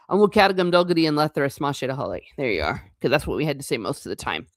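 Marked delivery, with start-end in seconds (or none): 0.1-2.2 An bhfuil cead agam dul go dtí an leatharas rattled off fast from memory; rattled-off Irish phrase. Shown as a demonstration. Showing off the classroom Irish she had to say, fast. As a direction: rush the school Irish like a well-worn line. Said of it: "I'm great at pronouncing".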